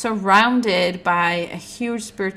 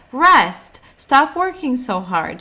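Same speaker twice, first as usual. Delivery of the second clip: mock grandma voice; 5 semitones higher, 7 dB louder, slower than usual. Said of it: "she never said".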